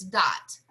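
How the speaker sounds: "dot" detached, with a firm end; separated dot. Shown as a demonstration. Teacher showing quarter notes on the downbeat, separated "dot". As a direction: land "dot" as a separated note. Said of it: "anytime we have quarter notes on the downbeat".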